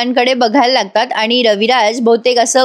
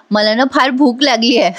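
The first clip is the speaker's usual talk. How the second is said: laughing. Real, not acted. Narrator laughs quoting greedy girl.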